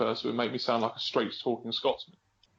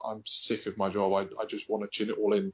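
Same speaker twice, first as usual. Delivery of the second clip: inner honest gripe; 5 semitones lower than usual. Retold or imitated. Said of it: "you're actually really going".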